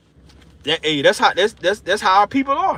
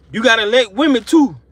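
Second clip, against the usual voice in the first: "You gotta elect women too" said louder with weight; emphatic repeat; 5 dB louder than usual. Real, not acted.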